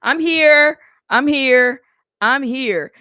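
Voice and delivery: loud, high-pitched rush of repeated apologies; flustered apology. Real, not acted. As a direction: announce your late arrival loudly, apologizing over and over. Flustered late arrival to livestream.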